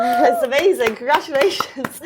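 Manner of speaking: high, loud cheer; excited congratulations. Real, not acted. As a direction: celebrate the wins out loud. Cheering the young racer's wins.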